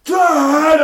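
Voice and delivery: high, loud call for a parent; imitated child's yell. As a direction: mimic a kid shouting from another room. Child calling out from bedroom.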